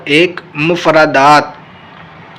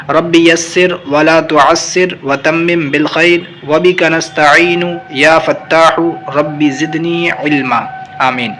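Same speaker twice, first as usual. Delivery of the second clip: slow, measured recitation of the dua; prayer recitation; slower than usual. Real, not acted. Teacher leading students in a dua, slow recitation. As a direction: recite the prayer slowly and devoutly.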